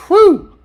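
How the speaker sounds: loud, high-pitched exaggerated "whew"; mock relieved whew. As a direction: blow out a big sarcastic sigh of relief. Feigns relief about FBI investigation.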